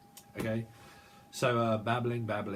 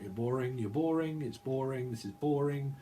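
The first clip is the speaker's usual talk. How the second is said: mock complaint; 3 semitones higher, 4 dB louder than usual. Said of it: "Someone's kinda like".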